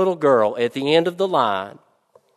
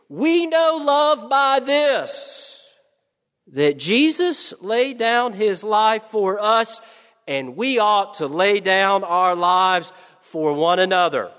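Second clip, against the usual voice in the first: put-on child reading aloud; 5 semitones higher than usual. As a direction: read it like a proud little girl taking her time. Little girl reads verse aloud.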